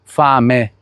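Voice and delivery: "Fame" said slowly, final E kept clear and open; fame with full E. Shown as a demonstration. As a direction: land on the E of "Fame", never swallow it. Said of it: "devo pronunciar esse E do jeito que ele é". ("Fame" com E final aberto e claro)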